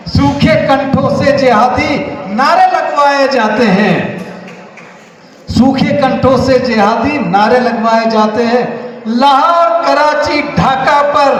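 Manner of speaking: emphatic declaimed Hindi verse; poem recitation. Acted. Reciting Partition verses to the audience, emphatic recitation. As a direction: declaim it, stretching the weighty phrases.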